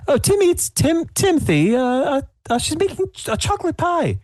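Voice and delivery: put-on high, quavering elderly woman; old lady voice. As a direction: play the sweet old baker, flustered. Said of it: "And then she turns and says".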